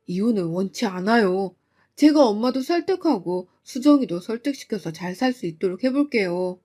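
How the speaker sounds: pleading husband. Acted. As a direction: beg to keep the marriage.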